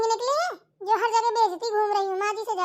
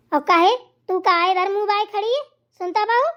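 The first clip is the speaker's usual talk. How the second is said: loud, sharp call to the daughter-in-law; mother-in-law barking from across the house; scolding call; 5 dB louder than usual. Acted. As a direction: yell at her for standing idle.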